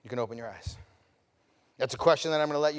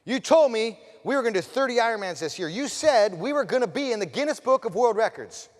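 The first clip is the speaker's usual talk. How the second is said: lightly voiced child's protest, raised pitch; insistent daughter; 5 semitones higher, 4 dB louder than usual. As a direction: hold Dad to his promise, high and louder. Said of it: "She says".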